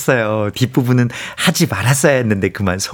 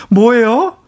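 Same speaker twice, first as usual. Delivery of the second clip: startled, higher-pitched blurt; 7 semitones higher, much slower than usual. Retold or imitated. Daughter-in-law opening the door to an unexpected mother-in-law, startled. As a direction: blurt it out as if caught off guard. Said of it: "깜짝 놀라서 문 열면서".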